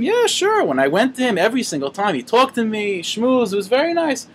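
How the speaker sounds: high-pitched, breezy assurance; eager acted reply. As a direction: play a chassid confidently vouching for himself. Chassid eagerly answering the angels.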